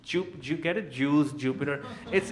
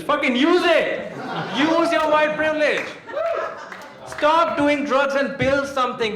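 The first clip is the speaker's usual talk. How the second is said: angry shout; 7 semitones higher than usual. Acted. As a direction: bark it at the crowd like a furious boomer. Comic rants at millennials.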